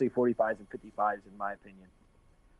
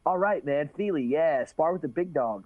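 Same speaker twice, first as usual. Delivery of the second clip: raised, stoked bro voice; quoting Sage; 5 semitones higher than usual. Retold or imitated. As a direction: gush like a happy sparring partner. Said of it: "he's like".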